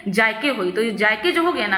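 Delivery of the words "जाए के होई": "के" given extra force; stress on के. Shown as a demonstration. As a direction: press on "के" in "जाए के" as a demo. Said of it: "उसमें बल लगा दिया". ("के" पर ज़ोर देकर)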